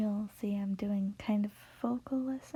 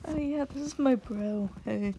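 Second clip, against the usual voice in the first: louder, higher mock bro greeting; casual bro; 3 semitones higher, 4 dB louder than usual. Onlooker vouching for their bro, casual and loud. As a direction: play someone claiming a bro. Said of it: "watch people be like".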